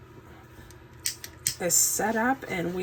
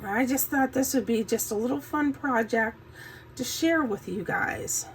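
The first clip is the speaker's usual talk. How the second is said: morning voice; 3 dB quieter than usual. Real, not acted. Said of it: "Sorry about my morning voice".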